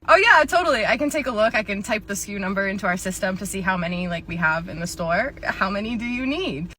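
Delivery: perky helpful clerk; chirpy store clerk; upbeat cashier voice. Acted.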